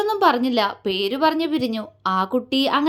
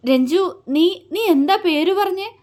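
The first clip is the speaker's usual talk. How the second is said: higher, halting, urgent question; trembling voice; 6 semitones higher than usual. A narrator's reading. Ayush asking his friend for the name, trembling. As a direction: stammer it in stunned agitation. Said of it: "വിറയാർന്ന സ്വരത്തിൽ അവനോട് ചോദിച്ചു".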